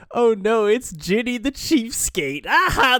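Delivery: high, loud mock-alarmed teasing; hammed-up crowd poking fun, high-pitched; acted laughing jeer. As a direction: tease loudly, ending in a laugh. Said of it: "They're, like, laughing".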